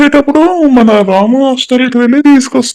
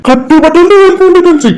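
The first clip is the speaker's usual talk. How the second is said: higher, forceful order to leave; angry command; 6 semitones higher than usual. Acted. Creditor ordering the family out, angry raised command. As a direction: drive them out with nothing.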